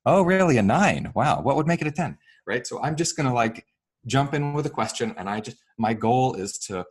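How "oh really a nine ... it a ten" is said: engaged curiosity. Shown as a demonstration. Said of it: "I'm gonna say".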